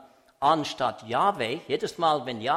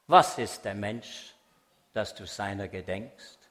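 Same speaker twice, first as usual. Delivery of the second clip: psalm recitation; 3 dB louder than usual. Acted. Preacher recites a psalm to the audience, solemn recitation.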